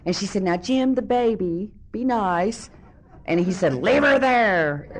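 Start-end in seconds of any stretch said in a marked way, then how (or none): 0.4-2.7 high-pitched imitation of a pleading wife; placating stepmom. Stepmom pleads with angry dad. 3.7-4.9 loud, drawn-out angry dad yell; mock screaming father. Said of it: "he just screaming his head off".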